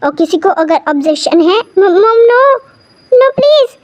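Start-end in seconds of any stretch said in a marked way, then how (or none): 1.8-3.8 pleading no. Acted. Daughter begs mom not to.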